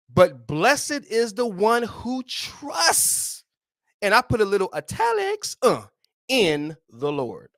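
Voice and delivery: drawn-out reverent reading of the verse; slow scripture reading. Acted. Preacher reading the verse to listeners, slow and reverent. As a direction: lean into each word of the verse. Reads scripture slowly, emphatic.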